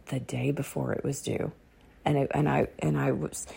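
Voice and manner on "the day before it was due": softer repeat, letting it sink in; hushed emphasis; soft echo. Shown as a demonstration. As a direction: echo it quietly for weight.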